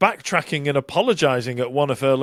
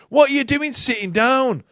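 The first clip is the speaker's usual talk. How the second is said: higher, put-on diva scolding; mock pop-star shout; 10 semitones higher than usual. Host mimicking a singer calling out a fan, mock shout. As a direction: bark it like a pop star on stage. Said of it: "she shouted".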